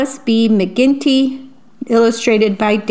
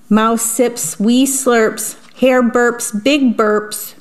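put-on reading to children. A narrator's reading. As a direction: savour each rhyme for little listeners. Reads picture book aloud.

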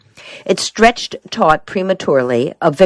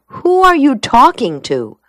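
high, puzzled wife's question; incredulous question; 9 semitones higher than usual. A narrator's reading. Wife meets him at the basement door, incredulous. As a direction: ask it high, baffled and pointed.

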